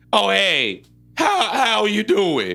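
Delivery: high, slow put-on drunk voice. Shown as a demonstration. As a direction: slur it like you're tipsy. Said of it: "I call it my drunk voice".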